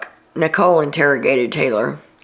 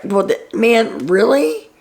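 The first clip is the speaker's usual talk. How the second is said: mock surprised; 6 semitones higher, slower than usual. Kyle's caught-out reaction.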